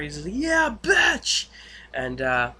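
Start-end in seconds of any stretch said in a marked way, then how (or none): 0.3-1.5 loud, high triumphant whoop; Jesse's catchphrase. Retold or imitated. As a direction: imitate a jubilant catchphrase yell. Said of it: "uses his catchphrase".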